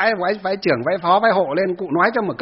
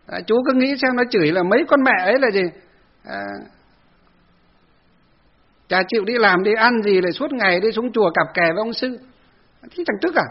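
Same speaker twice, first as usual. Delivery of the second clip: put-on raised, aggrieved old woman's protest; indignant old lady; 4 semitones higher than usual. Temple elder protesting to the monk, raised and aggrieved. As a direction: plead the grievance higher and indignant. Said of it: "old ladies justify their grudge".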